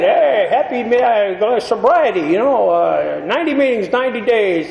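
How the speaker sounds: slow, lightly voiced old man, drawn out; a hint of a creaky old-timer's welcome. Old-timer greeting the scared newcomer, lightly voiced elder.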